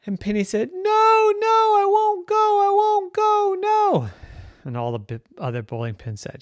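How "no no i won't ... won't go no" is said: high frantic no, no; panicked refusal. Acted. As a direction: wail no like a terrified toy. Pin refusing to be placed.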